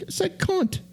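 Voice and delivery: very high, soft whispered British line; a mock bloke whispering the word. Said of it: "He's like".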